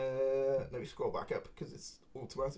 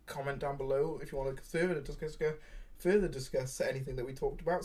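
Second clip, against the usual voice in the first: muffled. Real, not acted. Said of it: "my words are a little bit muffled".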